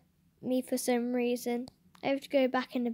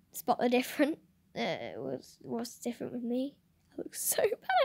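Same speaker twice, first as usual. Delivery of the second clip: whispering; 5 dB quieter than usual. Real, not acted. Whispered reading of selfie chat.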